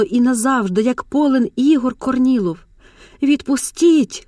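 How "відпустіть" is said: high, slow, desperate plea; desperate cry. A narrator's reading. Mar'yana pleading with the man gripping her, slow desperate cry. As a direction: stretch it out in desperation. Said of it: "кричить відчайдушно".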